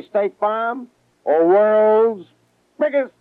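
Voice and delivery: showing off Brooklyn accent. Shown as a demonstration. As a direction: Brooklyn accent, hold up each word for the audience, biggest up high. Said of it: "where's the accent problem".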